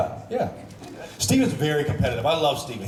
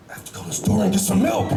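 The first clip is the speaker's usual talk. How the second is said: higher, put-on American accent as Paul; Paul Blackthorne's American accent; 6 semitones higher than usual. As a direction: do Paul's British-tinged American accent, ending up. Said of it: "Paul Blackthorne".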